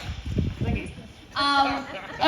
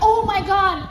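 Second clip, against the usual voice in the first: higher-pitched amused shock; retold gasp of disbelief; 5 semitones higher than usual. Woman sees guard plump over, laughingly shocked.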